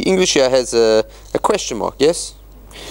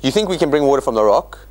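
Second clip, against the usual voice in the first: mocking question; faster than usual. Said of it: "So he says".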